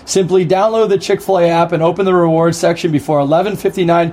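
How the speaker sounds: lightly put-on radio announcer read. Hockey player reading a sponsor ad on request, in his best radio voice. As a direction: read the promo smoothly, like a radio host. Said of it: "in your best radio voice".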